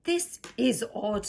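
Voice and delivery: puzzled hero. Acted.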